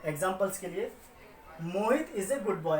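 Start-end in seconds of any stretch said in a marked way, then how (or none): 1.6-2.8 put-on slow, deliberate reading of Mohit is a good boy, each word set apart; slow example read. Shown as a demonstration. Teacher slowly dictates the example to students. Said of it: "हमने यहाँ पे सिर्फ और सिर्फ मोहित के बारे में बताया".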